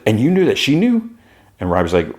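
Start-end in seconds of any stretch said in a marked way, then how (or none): 0.0-1.1 incredulous. Retold or imitated.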